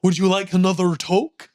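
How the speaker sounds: servile robot butler impression; Crichton. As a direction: play a polite android servant offering refreshments. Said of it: "Pretend to be Crichton".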